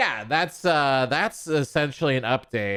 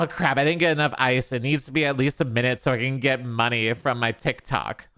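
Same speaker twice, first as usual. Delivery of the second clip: mock TikTok mom; faster than usual. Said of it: "And action".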